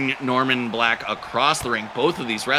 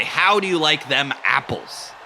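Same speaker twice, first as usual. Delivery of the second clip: "How do you like them apples?" with a Boston accent, dropped r and broad vowels; Boston accent demo line. Shown as a demonstration. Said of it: "Boston accent thing for you to try".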